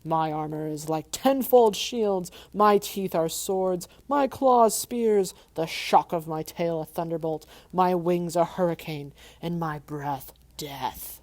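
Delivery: loud, slow booming dragon boast. Acted. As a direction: savor each threat slowly.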